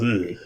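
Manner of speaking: soft disgusted groan; a refined little groan of distaste; mock disgust noise; disgusted ugh. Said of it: "your refined inner self just goes".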